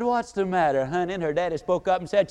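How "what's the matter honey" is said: put-on softer, gentle comfort to a crying child; tender grandmother. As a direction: coo it like a kind grandma. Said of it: "leaned down and said".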